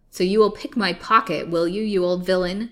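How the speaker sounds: loud, crowing challenge; wife gloating over her beaten husband; triumphant cry. A narrator's reading. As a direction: crow over the defeated villain. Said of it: "she cried triumphantly".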